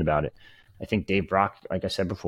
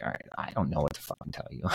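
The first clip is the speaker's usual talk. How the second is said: exasperated coach; 5 semitones lower, 11 dB quieter than usual. Retold or imitated. Exasperated coach voiced, unvoiced.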